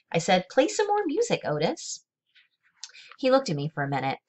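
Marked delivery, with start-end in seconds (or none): 0.5-2.0 shouted. A narrator's reading. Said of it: "I shouted over Winn-Dixie barking".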